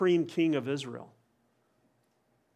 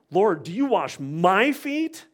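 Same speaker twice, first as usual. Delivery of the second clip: raised, slow, insistent question; Peter's protest at the foot washing, slow and raised; emphatic protest; 3 semitones higher, 5 dB louder, slower than usual. Retold or imitated. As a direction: protest to the Lord, slow and pressing. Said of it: "very emphatic and intense".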